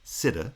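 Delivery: "Sida" as "SIT-uh", cut off before the last syllable; isolated foot. Shown as a demonstration. Lecturer isolates the foot in citizen, stressed then weak. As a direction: stress the first syllable of "Sida", schwa on the second. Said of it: "is the foot".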